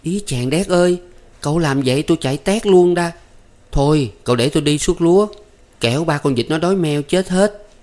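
maid cries out, high and startled; a flustered little yelp of protest; startled cry. Acted. Startled maid to the young master, high flustered cry. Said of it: "Thắm khẽ kêu lên".

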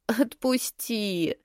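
high, slow whiny plea; whimpering. A narrator's reading. Grabbed girl whines to be let go. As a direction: drag the word out whining. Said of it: "захныкала главная снежинка".

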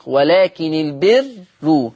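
البر with a damma and a thin, light ر; light r reading. Shown as a demonstration. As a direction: recite "ولكن البر" slowly, keeping the ر of البر thin. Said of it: "مع الترقيق".

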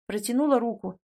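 plain reading voice

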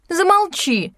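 high sharp shout; losing her temper, she shouts at the doctor. A narrator's reading. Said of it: "крикнула я".

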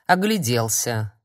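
ordinary delivery

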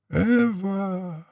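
put-on high surprised old woman's exclamation; surprised drawn out. A narrator's reading. Mother-in-law hearing the confession, surprised and drawn out. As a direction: draw it out, surprised and almost pleased. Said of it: "Удивлённо и даже как бы обрадованно".

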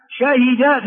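شهد as sha-hi-da, drawn out; original form shahida. Shown as a demonstration. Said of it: "فعل ماضي". (شهد بكسر الهاء: شَهِدَ)

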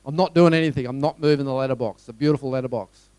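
loud indignant refusal; mock outraged builder; angry builder. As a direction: retell a furious mate's outburst. Builder cracked it on phone.

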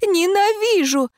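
rising to high tearful hatred; hating her through tears. Acted. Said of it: "заливаясь слезами".

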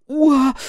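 high, loud cry as the air is knocked out; winded cry. Acted. Roxy kicked in the chest, loud high winded cry. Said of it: "Воздух резко покинул её лёгкие".

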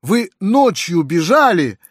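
choking with rage. Acted. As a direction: spit out the accusations in fury. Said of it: "задыхаясь от злости".

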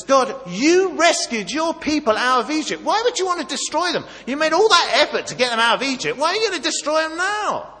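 high, loud, urgent challenge to God; loud pleading argument. Retold or imitated. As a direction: argue with God at full voice. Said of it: "He says".

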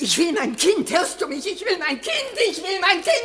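hysterical insistence. Acted. Mother demands her child from her husband, hysterical. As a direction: keep demanding, near hysteria.

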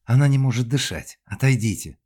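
loud alarmed cry. Acted. Lionella crying to the crowd, loud alarm. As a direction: push the crowd back. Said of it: "вскрикнула Лионелла".

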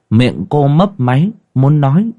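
ordinary delivery, nothing marked

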